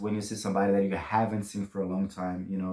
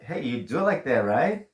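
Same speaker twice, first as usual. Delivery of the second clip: teasing; 4 semitones higher than usual. Shown as a demonstration. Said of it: "Or you can say, like".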